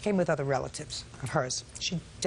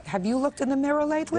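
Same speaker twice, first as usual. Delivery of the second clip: quick mocking jab; sarcastic judge; 8 semitones higher, 3 dB louder, faster than usual. Real, not acted. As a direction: tease him with a quick dig.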